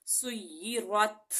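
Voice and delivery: سیرت slow, final ت released with a puff of air; hams breath. Shown as a demonstration. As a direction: let air escape on the ت of سیرت. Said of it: "میں آپ کو ادائیگی کر کے دکھاتی ہوں". (سیرت میں ہمس کے ساتھ ت)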